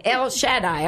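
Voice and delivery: El Shaddai as el SHAD-eye; stress on first syllable. Shown as a demonstration. Host trying the scholar's pronunciation, stressing SHAD in Shaddai. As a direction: put the weight on SHAD in Shaddai. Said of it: "you would put the emphasis on the".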